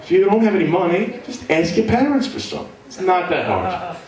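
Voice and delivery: high, smug dismissive voice; smug rich kid. Retold or imitated. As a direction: brush it off like a spoiled kid. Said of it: "I was like".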